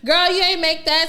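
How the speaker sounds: high, mocking friend; teasing friend voice. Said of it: "I send him a picture".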